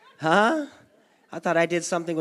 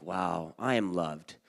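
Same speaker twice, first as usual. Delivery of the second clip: awed and touched; 11 semitones lower, 5 dB quieter, slower than usual. Retold or imitated. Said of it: "It's like".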